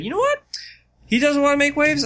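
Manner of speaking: put-on high, lively girlish quote; voicing Sierra making up her mind. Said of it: "So she decided".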